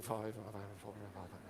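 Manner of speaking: mock crowd muttering under their breath; audience mumbling. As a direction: mumble the numbers like an unsure crowd. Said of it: "and people mumbling".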